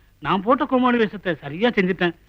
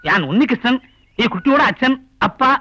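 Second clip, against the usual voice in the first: put-on Malayalam accent Tamil. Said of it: "எனக்கு கொஞ்சம் கொஞ்சம் தமிழ் அறியும்".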